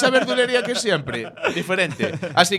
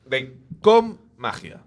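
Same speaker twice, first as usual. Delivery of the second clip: game show voice; 4 semitones lower, much slower than usual. Acted. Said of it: "Continúo con mi voz de concurso".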